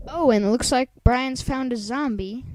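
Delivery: loud, eager shout to the others; bursting to share the news; excited call-out. Real, not acted. Calling to friends about a found zombie, excited shout.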